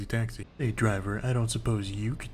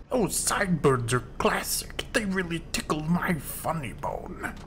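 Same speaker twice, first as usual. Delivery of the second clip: whispery slow voice; 7 semitones higher, slower than usual. Pretend. Voicing a character's reply.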